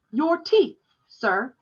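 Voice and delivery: put-on a boy pressing the man; insistent boy. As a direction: ask again, pushing a little. Boy repeats request.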